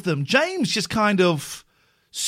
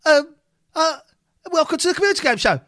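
higher, louder mock host intro; imitating David Turner; 10 semitones higher, 4 dB louder, faster than usual. Host mimicking David Turner opening the show, hammed-up. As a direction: ham up a dithering game show host. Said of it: "I just wanna go".

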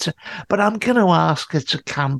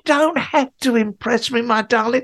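mock tender advice; 6 semitones higher than usual. Teller voicing himself to Kim.

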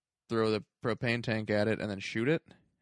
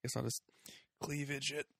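quiet musing aside; 2 semitones higher, 7 dB quieter, faster than usual. Retold or imitated. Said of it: "looks around like".

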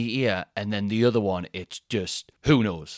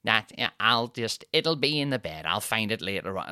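imitating wife. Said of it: "That's how she sounds".

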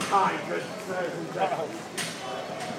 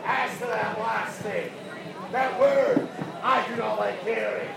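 put-on Scottish accent. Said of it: "I am indeed Scottish".

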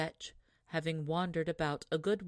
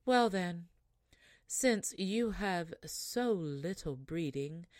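calm, unruffled. Acted. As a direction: pronounce the curse without anger. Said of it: "without putting herself in a passion".

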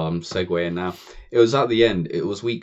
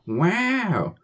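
mock amazement; 11 semitones higher, 4 dB louder than usual. Mock-awed reaction.

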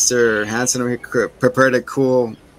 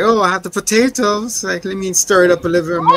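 higher, brisk hammed-up creepy host; mock creepy host; 6 semitones higher than usual. Retelling Mister Hanson serving dinner, hammed-up high voice. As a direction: play the eager creepy host. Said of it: "Mister Hanson over here is like".

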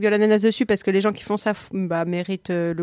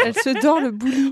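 laughing; 3 semitones higher than usual. Real, not acted. Joking about sunbathing host.

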